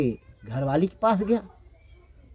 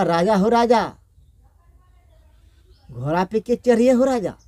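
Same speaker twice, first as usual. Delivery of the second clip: wailing lament; 2 semitones higher than usual. Acted. Queen weeps to her late king, gentle lamenting wail. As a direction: lament like a grieving widow, understated. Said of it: "फिर दोस्ती नहीं रोने लगा".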